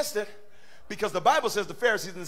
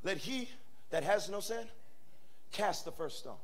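quiet quoted verse; 6 dB quieter than usual. Shown as a demonstration. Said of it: "And he says".

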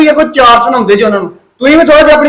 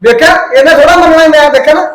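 noticeably higher, exasperated complaint; pitched-up fed-up protest; raised exasperated voice; 4 semitones higher than usual. Acted. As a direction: throw up your hands at the wife. Husband exasperated during quarrel.

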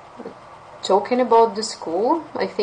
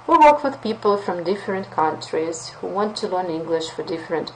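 confident pitch. Shown as a demonstration. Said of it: "sounds really better".

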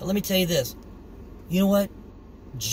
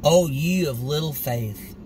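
1 calm rebuke; slower than usual. Acted. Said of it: "said to them".

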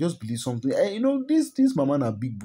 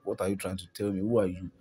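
mock angry outburst; 3 semitones higher than usual. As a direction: play the vexed aunt working herself up. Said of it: "vexed up, like".

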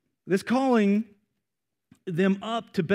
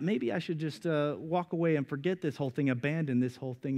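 softer, trailing off as if tempted to quit; hesitant murmur; 4 semitones lower, 6 dB quieter than usual. Retold or imitated. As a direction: mutter it like someone ready to walk away. Believer quietly thinking of quitting.

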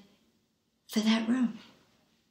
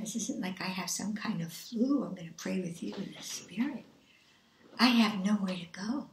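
whispered plea; 2 semitones lower, 6 dB quieter than usual. Retold or imitated. Dying woman pleading on phone.

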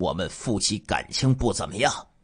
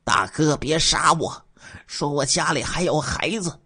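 pleading; 6 semitones higher than usual. Acted. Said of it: "他向我哀求说".

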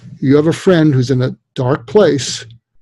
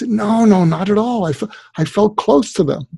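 earnest denial; 6 semitones higher than usual. Retold or imitated. Voicing students' answer to him.

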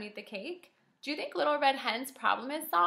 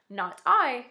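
louder storybook cat refusal, lightly voiced; cat's line; 8 dB louder than usual. A narrator's reading. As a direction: lightly play the cat, with more volume. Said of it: "said the cat".

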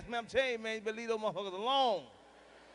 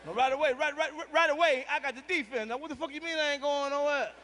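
mock-outraged, pitched up and pushed; indignant protest; 4 semitones higher than usual. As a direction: play the offended husband with a raised voice. His indignant comeback.

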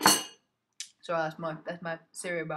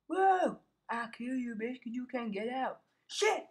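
heated threat; 5 semitones higher, 4 dB louder, slower than usual. Real, not acted. Fighting mob.

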